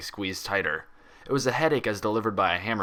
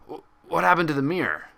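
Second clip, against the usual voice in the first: higher, louder stammered question; stunned shock; 8 semitones higher, 5 dB louder than usual. A narrator's reading. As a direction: catch sight of the smashed mirror. Cloth fell from slack jaw.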